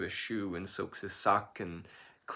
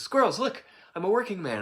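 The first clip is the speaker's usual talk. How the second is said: much higher and louder, bursting with pride; excited shout; 11 semitones higher, 9 dB louder than usual. Acted. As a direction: yell it out to every animal you pass. Jack shouting to every animal.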